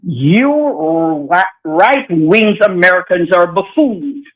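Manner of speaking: repeating the line in her Jamaican accent. Shown as a demonstration. Caller repeats host's line for him in her Jamaican accent. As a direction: say it back in your Jamaican accent. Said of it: "enlighten me with that beautiful accent".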